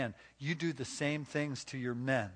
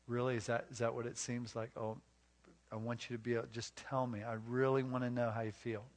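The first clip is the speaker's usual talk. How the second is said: patient, gentle listening; 4 dB quieter than usual. Acted. Models patient husband listening to wife.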